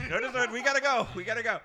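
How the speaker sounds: loud mock panic; emphatic refusal. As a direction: shut it down fast, we're leaving. Refusing dessert, desperate to leave.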